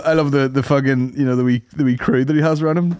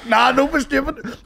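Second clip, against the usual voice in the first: mock Irish-tinged owl boy accent, a touch higher; imitating the clip's owl boy, lightly done; 10 semitones higher, slower than usual. Friends mocking the owl boy accent, in a light Irish accent. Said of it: "He literally changed that accent".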